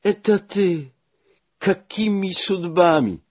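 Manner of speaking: put-on high, delighted old woman's cry; excited exclamation. A narrator's reading. Nina greeting long-lost friend, high delighted surprise. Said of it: "wykrzyknęła".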